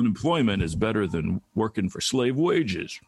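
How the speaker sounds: lightly voiced, halting old senator, mostly in own voice; a mild hint of a mumbling Southern senator; Mitch McConnell impression. Mock press conference clip of the senator, lightly imitated. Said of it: "That's a really good impression of him".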